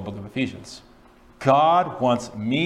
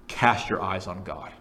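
slow, low, measured counsel; weighty, unhurried directive; solemn appeal; 4 semitones lower, 4 dB quieter than usual. Acted. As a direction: lower the pitch and slow down. Quoted answer delivered with weight.

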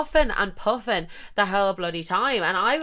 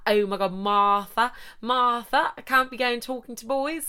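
higher, protesting friend voice rising on Martha; imitating a flustered friend; 5 semitones higher than usual. Friend refusing to talk to boys, high flustered protest. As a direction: play the shy friend panicking about boys.

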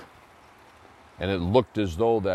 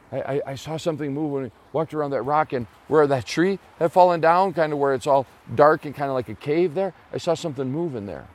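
fast, breathless stammer, a bit higher; stammering alarm; 5 semitones higher, 3 dB louder, faster than usual. Acted. Boy tells the lumberjack what he saw, fast and stammering. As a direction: rush it out like a spooked kid. Boy excitedly reports moving thing.

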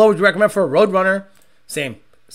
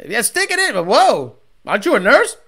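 much higher, breezy mock woman's voice; hammed-up careless nurse; lightly voiced flirty nurse; 4 semitones higher than usual. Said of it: "they're out there just".

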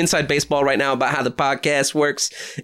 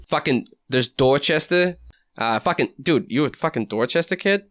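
mock Dorchester accent. Co-host quizzing a kid on hometown, mock Boston accent. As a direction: fake Boston street talk.

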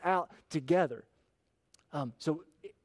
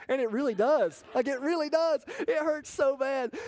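emphatic; 10 semitones higher, 3 dB louder than usual. Real, not acted. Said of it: "father confessing his pain".

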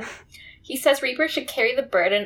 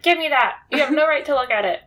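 enraged shout; 3 semitones higher, 4 dB louder, faster than usual. Retold or imitated. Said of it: "becomes enraged again".

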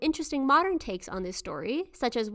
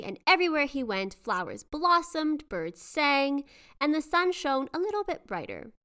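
grave ancient myth telling. A narrator's reading. Reads the legend aloud.

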